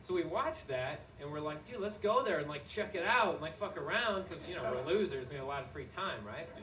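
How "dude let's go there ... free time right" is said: hammed-up excited friend; excited dude. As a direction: sell it like a bored kid with an idea.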